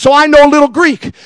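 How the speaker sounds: lightly put-on Greek accent, like Nick the Greek; a hint of a Greek pizza-shop owner's accent. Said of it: "and he talks like this".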